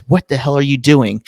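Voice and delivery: retold wife yelling. Podcaster imitating his wife catching him filming, mock scolding. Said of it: "my wife was screaming at the kids".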